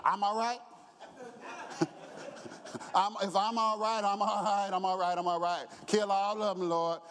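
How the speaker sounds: laughing, offhand shrug of a voice; mock nonchalance through laughter; mock careless intercessor. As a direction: tease the wrong kind of helper.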